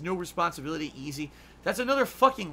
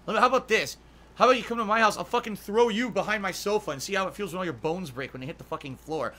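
angry; 2 semitones higher, 4 dB louder than usual. Real, not acted. Angry threat at abuser.

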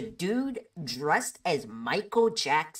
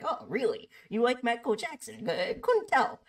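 sarcastic; 7 semitones higher than usual. Retold or imitated. Teasing a singer's fan.

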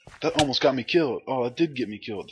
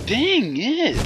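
much higher, sharp cry; frustrated outburst; 13 semitones higher, 4 dB louder than usual. Real, not acted. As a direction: shout it at the screen. Frustrated gamer after dying.

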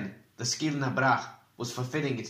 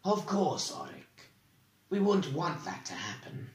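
smoothly; 5 semitones higher than usual. A narrator's reading. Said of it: "and said smoothly".

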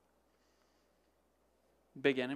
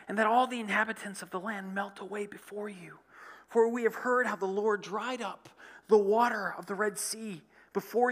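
lightly voiced, a bit higher reading of Rahab; scripture quote lifted slightly higher; Rahab's words; 5 semitones higher than usual. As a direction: read her plea with a touch of awe. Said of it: "she came to them on the roof and said to them".

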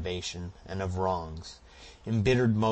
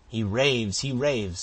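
higher, loud alarmed insistence; frightened protest; 5 semitones higher, 8 dB louder, slower than usual. A narrator's reading. Housekeeper Katy protecting the hidden gold, alarmed cry. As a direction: cry out to cover the hiding place. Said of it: "said Katy instinctively".

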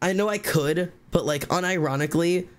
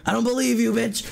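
high-pitched, scornful comeback; accusing jab in an argument; confrontational retort; 8 semitones higher than usual. Retold or imitated. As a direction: re-enact calling someone's bluff.

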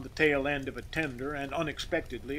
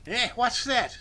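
surprised; 8 semitones higher, 3 dB louder than usual. A narrator's reading. Stunned boss asks back.

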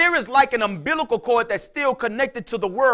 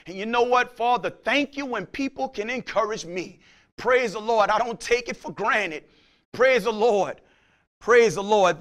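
prayerful thanks; 2 semitones lower than usual. Acted. Preacher praying, self-encouraging.

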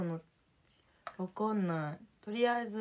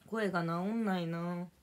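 hoarse. Real, not acted.

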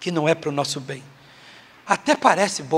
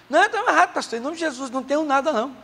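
a higher, stubborn churchy denial; high mock denial; 7 semitones higher, faster than usual. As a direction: her voice pitched up, dragging out Jesus. Woman denying problem to pastor.

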